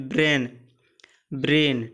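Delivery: ब्रेन said twice as "brain", falling; pronunciation demo. Shown as a demonstration. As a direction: say ब्रेन slowly for students. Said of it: "जैसे ब्री". (ब्रेन का उच्चारण करके दिखाना)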